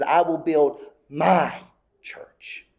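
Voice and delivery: breathless whisper of Christ's words; hushed whisper. Acted. Preacher quoting Christ to the congregation in a slow whisper. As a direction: whisper it slowly, like a sacred secret.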